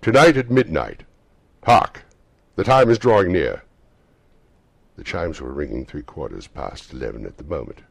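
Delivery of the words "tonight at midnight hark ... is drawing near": loud, solemn ghostly proclamation; unearthly voice. Acted. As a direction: announce doom like a spirit.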